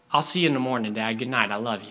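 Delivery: lightly acted tender bedtime goodnight; understated affection, settling for bed; calm trusting boy. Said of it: "there was a second boy".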